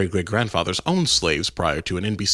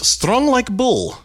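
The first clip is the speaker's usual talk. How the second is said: tough strongman voice; 14 semitones higher, 4 dB louder, much slower than usual. Pretend. T-shirt slogan in mock accent.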